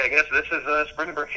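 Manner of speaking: mildly unsure, with a laugh after; tentative understatement. Retold or imitated. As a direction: play it down, as if only guessing. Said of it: "kinda how I put it".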